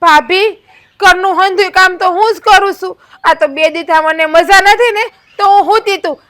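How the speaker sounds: mild mock of her whining; lightly mocking the young wife; mocking imitation. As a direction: parrot her words with scorn. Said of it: "પાછી તો ઉપરથી એમ કે".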